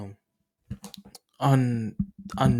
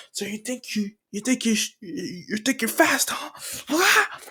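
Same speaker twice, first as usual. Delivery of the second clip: taunting villain; 9 semitones higher than usual. Acted. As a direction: jeer at him, then roar as you charge. Villain taunts then charges.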